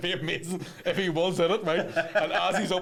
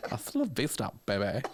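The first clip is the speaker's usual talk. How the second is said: put-on baby-face Terminator line; 6 semitones lower, 5 dB quieter than usual. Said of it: "the wee face you do with the baby".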